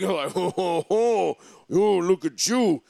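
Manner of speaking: lightly voiced leering old man, slow; a hint of a drawn-out creepy old uncle ogling. Mocking a creepy old golfer.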